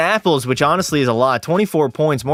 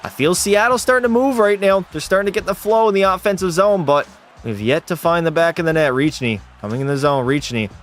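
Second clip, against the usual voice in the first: hockey commentator calling the game; live play-by-play. Acted. Streamer calling the hockey game for chat, commentator style. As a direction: call the action for viewers.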